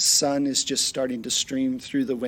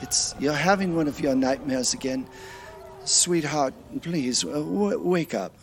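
higher, tender worried husband voice; husband gently waking wife; 4 semitones higher than usual. Acted. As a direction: soothe her out of a nightmare. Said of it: "it's your husband in the bed".

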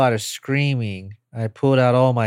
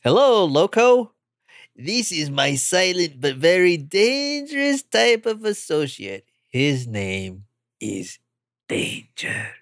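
second alien voice; 5 semitones higher than usual. Acted. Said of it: "doing two voices".

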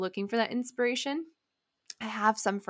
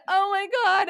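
much higher, loud gasp of fear; frightened exclamation; 11 semitones higher, 4 dB louder than usual. Retold or imitated. Climber letting go of the boulder, high and frightened. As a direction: let go in a burst of fear. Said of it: "And so I said".

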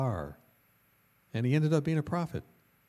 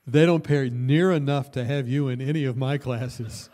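laughing retort; 6 dB louder than usual. Retold or imitated. Teacher's retort told laughing.

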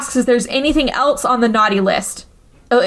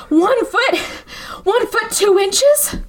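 higher, slowly measured words; slow, halting answer; 8 semitones higher, slower than usual. Retold or imitated. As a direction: spell out the height deliberately. Mom describes tiny killer.

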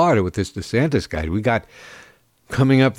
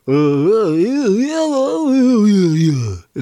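mock redneck yeahs; 9 semitones higher, 4 dB louder, much slower than usual. Mock redneck agreeing, high.

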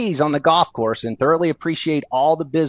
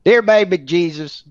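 mock a earnest grace in a Southern accent; Southern-accented comic prayer, opening raised then settling; slower than usual. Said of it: "do your best Southern accent".

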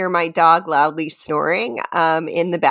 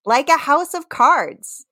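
1 dramatic reading; 6 semitones higher than usual. Shown as a demonstration. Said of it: "just straight reading, not singing".

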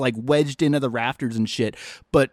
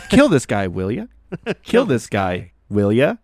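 mock zombie command; 7 semitones lower than usual. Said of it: "Just keeps repeating it".

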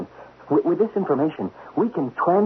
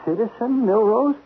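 shocked disbelief; 7 semitones higher than usual. Acted. Shocked at demotion to citizen.

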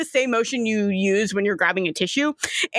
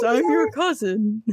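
put-on Southern Florida accent; Southern Floridian gator. Gator claiming kin, Southern Floridian accent. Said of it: "the gators are the full Southern Floridian".

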